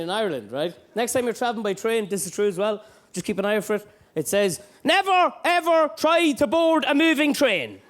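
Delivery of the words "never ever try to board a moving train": slow, loud, mock-official announcement; booming Irish Rail warning; official sign voice. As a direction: read it like a pompous public notice. Reading official sign grandly.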